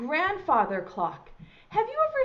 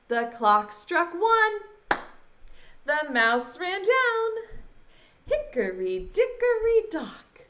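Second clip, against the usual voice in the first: nursery rhyme recital. Shown as a demonstration. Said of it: "Here goes".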